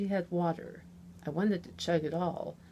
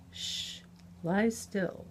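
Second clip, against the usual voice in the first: reassuring; 2 semitones higher, slower than usual. Acted. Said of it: "low and reassuring tone".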